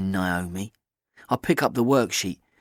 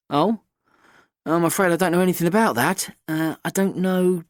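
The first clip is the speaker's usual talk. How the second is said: flustered teacher; 6 semitones higher than usual. A narrator's reading. Flustered supply teacher voiced.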